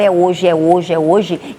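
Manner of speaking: ordinary talk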